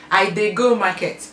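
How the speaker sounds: plain Nigerian Pidgin example. Shown as a demonstration. Teaching viewers a Nigerian Pidgin sentence, lightly voiced. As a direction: state the Nigerian Pidgin line simply. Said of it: "you say".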